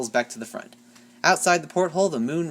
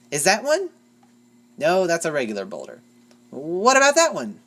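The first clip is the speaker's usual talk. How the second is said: eager Derpy; 4 semitones higher, 5 dB louder than usual. A narrator's reading. Derpy pointing at rocks.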